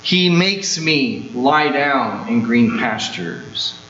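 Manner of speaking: unhurried full reading of the verses; slow scripture reading. Shown as a demonstration. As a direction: read the psalm slowly and reverently. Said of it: "The very first four words emphasize that truth".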